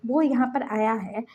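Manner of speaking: breathy secret whisper; hushed confiding whisper. Acted. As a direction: lean in and whisper it. Secret boyfriend reveal, hushed.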